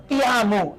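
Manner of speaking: "Te amo" with the o closed to u, "ti amu"; final o as u. Shown as a demonstration. Teacher imitating Andean speakers, "amo" said as "amu". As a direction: say "Te amo" Andean-style, ending "amo" on a u. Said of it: "así con la U todavía".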